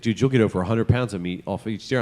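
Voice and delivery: low, rough gravelly voice. Retold or imitated. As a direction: put some gravel in it. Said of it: "he doesn't really sound like that".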